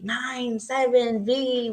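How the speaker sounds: slow, drawn-out mock yell; half-hearted yell, stretching out each item; imitated yelling. Caller giving the plate to the dispatcher, slow mock yelling. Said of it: "I'm, like, yelling numbers at her".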